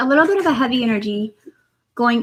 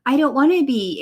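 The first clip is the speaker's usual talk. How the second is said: mock protesting; 4 semitones higher than usual. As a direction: play the good side pushing back, half-joking. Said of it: "And then you're like".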